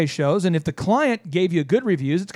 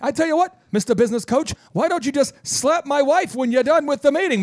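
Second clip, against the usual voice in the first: hammed-up indignant rant, pitched higher; mock offended owner; 5 semitones higher than usual. Offended website owner ranting at the business coach, mock outrage. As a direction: act wounded and outraged, over the top.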